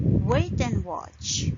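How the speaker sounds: "Wait and watch" slow, weight on "Wait" and "watch"; stress on key words. Shown as a demonstration. Teacher repeating for learners, "Wait and watch" stressed on key words. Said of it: "The important words are wait".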